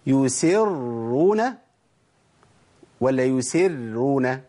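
"يسرون" very slow, both ra's thick despite the kasra; correct heavy ra. Shown as a demonstration. Teacher recites the example, long thick ra. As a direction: hold a dark doubled ra in "يسرون". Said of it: "ما اسحبش الراء الأولى للترقيق".

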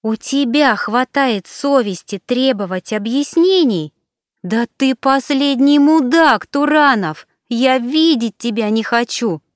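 high, loud, furious tirade. Acted. Alina rages at Turanov in the cafe, furious. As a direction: let the disgust and rage spill out.

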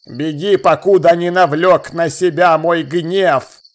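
slow, commanding elf voice; a proud lord warning a boy; haughty elf lord. A narrator's reading. Elf lord threatens Jeffrey. (надменный эльфийский лорд)

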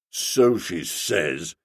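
low, slow, sulky; moody reply. A narrator's reading. Stilton answering Bertie, low and moody. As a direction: drag it out moodily. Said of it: "he responded moodily".

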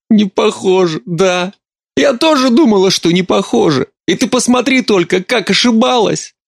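high, tear-choked bitterness; mother weeping about her husband, high and tearful. Acted. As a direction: weep with bitter irony.

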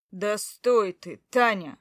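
loud, slow shout after her; calling out loud. Acted. Husband calling his wife to stop, loud and slow.

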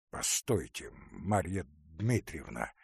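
low, hollow and trembling; husband halting the aunt, muffled and shaken. Acted. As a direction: stop her in a dull, shaken tone. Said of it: "глухим, но потрясающим голосом".

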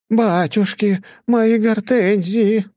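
high, slow dismayed cry over the flowers; dismayed wail. A narrator's reading. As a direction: wail as if the flowers are ruined. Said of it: "раздался женский голос". (горестный возглас «мои гортензии», высоко и протяжно)

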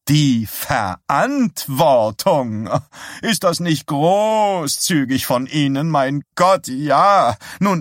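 high, loud, sneering scold at the sheriff; indignant shrill outrage. Acted. Woman scolding the sheriff at her door, indignant shrill outrage. Henrietta furious at Bannerman.

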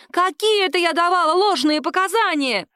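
high squealing indignant cry; shrill shout. A narrator's reading. Accused woman shrieks at the captain in protest. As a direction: shriek it, outraged. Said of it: "визгливо закричала".

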